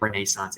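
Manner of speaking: Renaissance said ruh-NAY-sahnce; alternative pronunciation. Shown as a demonstration. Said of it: "is the correct pronunciation".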